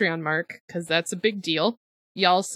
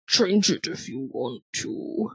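low, slow voice; 6 semitones lower, 3 dB quieter, slower than usual. Shown as a demonstration. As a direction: lower and slower, drawn out. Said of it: "I have no idea what that's gonna sound like".

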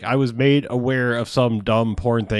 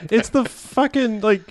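exasperated rant; 6 semitones higher than usual. Retold or imitated. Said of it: "I was like".

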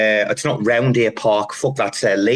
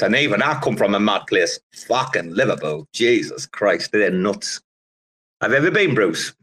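ordinary talk, nothing marked

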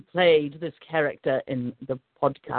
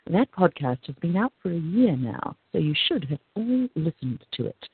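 Dark Goddess voice; 3 dB quieter than usual. Pretend. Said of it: "I'll do this in the Dark Goddess voice".

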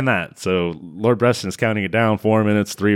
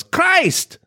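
high, loud panicked yell; hammed-up high shriek of alarm; mock yell; 3 dB louder, slower than usual. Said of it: "he yells".

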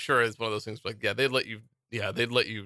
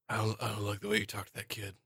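tough guy voice; 2 semitones lower, 8 dB quieter than usual. Pretend. Quoting Seagal line.

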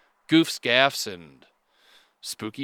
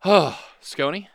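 slow hushed questioning; slower than usual. Pretend. Slow intimate mock questioning.

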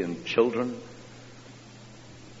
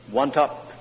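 put-on tired child; 6 semitones higher, 4 dB louder than usual. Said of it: "he said".

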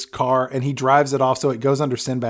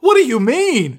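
higher, put-on worried question; lightly voiced husband; mock husband; 9 semitones higher, 4 dB louder than usual. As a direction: play the confused spouse. Acting the husband's reply.

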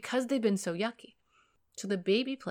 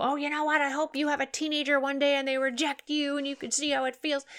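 higher, louder mocking retort; sarcastic parent; 6 semitones higher, 4 dB louder than usual. Hurt parent snapping sarcastically at a rejecting teen. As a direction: bite back with spite. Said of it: "I don't want parents to go".

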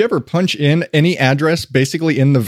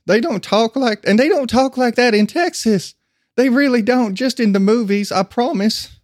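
high-pitched mock protest; pleading protest; 8 semitones higher than usual. Retelling objection to wife's grandmother's fake accent, high protest. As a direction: plead your case in a raised pitch.

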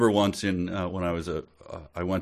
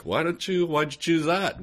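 put-on higher, puzzled girlish voice; higher mock-curious voice; 9 semitones higher than usual. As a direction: ask it like a curious girl. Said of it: "instead she's like".

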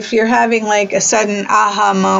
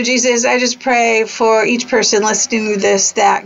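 closing prayer. Real, not acted. Host praying for listeners, in an earnest voice. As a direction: bless them gently as you pray.

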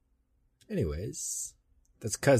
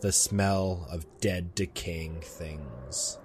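story narration. A narrator's reading. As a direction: tell a ghost story with big openings, falling away.

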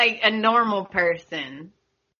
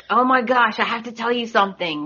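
animated retelling; 3 semitones higher, faster than usual. Retold or imitated. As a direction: retell his agitated news, pitched up and rushing the end. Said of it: "he's really animated about it".

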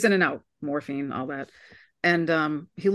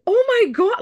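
shocked oh my God; 13 semitones higher, 5 dB louder than usual. Retold or imitated. Retold own shock at brother.

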